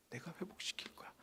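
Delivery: whispered promise. Acted. God's promise, repeated softly.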